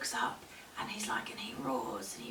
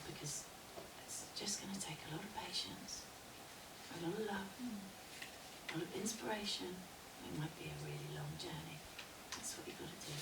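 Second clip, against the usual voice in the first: soft, hushed counsel with pauses; calm wise woman; 11 dB quieter, faster than usual. Acted. Crone to the woman about her husband's heart, calm. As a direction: advise quietly, letting each point settle.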